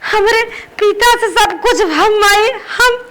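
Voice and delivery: halting, on the verge of tears; hurt, sobbing appeal; tearful pleading. Acted. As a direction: plead through tears, with long breaks. Rejected daughter pleads, cry heard.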